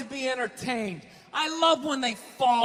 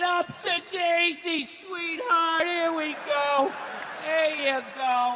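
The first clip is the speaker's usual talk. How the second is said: mock tender helper; 6 semitones higher, slower than usual. Mock wife-beater helping wife up.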